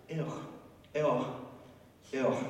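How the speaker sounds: hammed-up valley girl ew; a squeamish ew, mocking the Pharisees; mock disgusted ew. Pastor mocking the disgusted Pharisees, valley girl ew. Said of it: "the valley girls of the Middle East".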